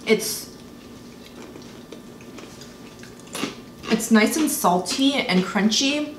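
talking between bites; chewing while speaking; mouth partly full. Real, not acted. Seen 0: Woman holds snack pieces, brings them to mouth while talking.

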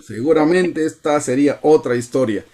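imitando una queja, algo más aguda al empezar; reproche actuado. Acted. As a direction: echar la culpa a otro, en broma. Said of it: "porque le dijo". (queja fingida)

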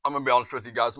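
talking with a burning mouth; mouth on fire. Real, not acted. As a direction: speak through spicy heat. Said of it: "my mouth is on fire right now".

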